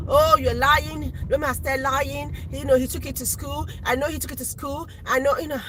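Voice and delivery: a hint of a husband calling out the lie; accusing husband. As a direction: play the sure, accusing dad. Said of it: "And my husband was like".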